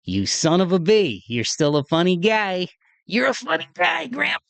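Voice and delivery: mock-exasperated fond squeal; fond teasing. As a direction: rib a late grandpa fondly, climbing into a squeal. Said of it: "smiling because I'm like".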